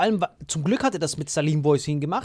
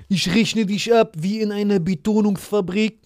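put-on example; 3 semitones higher than usual. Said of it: "wenn du sowas sagst wie".

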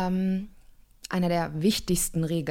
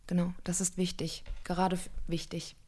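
whisper; 6 dB quieter than usual. Real, not acted. Coach stressing a rule.

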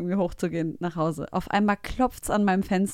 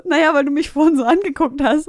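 put-on sulky young guy; 6 semitones higher, 8 dB louder than usual. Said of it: "Und er so".

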